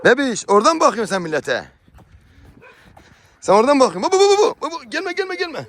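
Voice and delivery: high, loud call across the yard; sing-song the words to reach far. Real, not acted. Owner calling to animals from a distance, high loud call.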